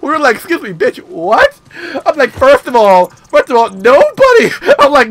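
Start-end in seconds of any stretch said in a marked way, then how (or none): 0.3-1.6 "what" jumps way up in shocked outrage; sassy offended comeback; indignant retort. Retold or imitated. Reacting to the insult. 2.3-4.5 louder, emphatic lecturing; loud telling off. Retold or imitated. Telling her off.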